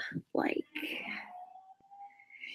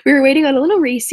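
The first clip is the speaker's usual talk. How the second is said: fast and louder, rushing through "on a little Reese"; quick, louder retake; 5 dB louder, much faster than usual. Shown as a demonstration. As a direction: snap back into the story quickly and louder. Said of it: "Back to where we were".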